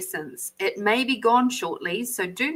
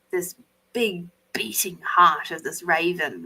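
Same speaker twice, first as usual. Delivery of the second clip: awed whisper; 4 semitones lower than usual. Real, not acted. Awed description of card.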